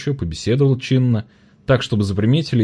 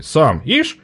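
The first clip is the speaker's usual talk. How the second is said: angry trader; 7 semitones higher, 3 dB louder than usual. A narrator's reading. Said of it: "ярилась Маня Крановухая".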